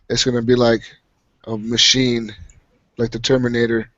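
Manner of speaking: robot voice. Pretend. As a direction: speak like a machine answering. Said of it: "You sound like a fucking robot".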